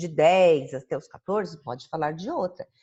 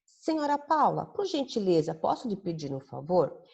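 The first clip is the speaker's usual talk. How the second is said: polite request to Senhora Paula; polite and delicate. Shown as a demonstration. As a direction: ask politely like to an elder. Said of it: "agindo de uma forma delicada, educada".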